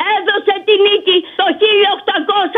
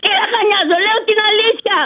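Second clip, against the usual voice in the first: breathless protest; winded but insistent; out of breath. Real, not acted. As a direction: insist through short breaths. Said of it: "Σ' ακούω λαχανιασμένη".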